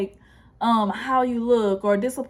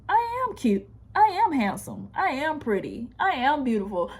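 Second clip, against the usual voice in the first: mock self-admiring; 4 semitones higher than usual. Mock self-affirmation in mirror.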